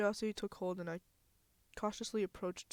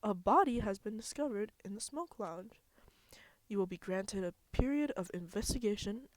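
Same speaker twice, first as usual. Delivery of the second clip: silly voice. Acted. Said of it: "so I'm trying to do a silly voice".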